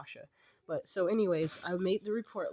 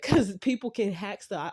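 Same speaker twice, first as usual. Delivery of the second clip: laughing; 4 semitones higher, 5 dB louder than usual. Real, not acted. Laughs at own threat.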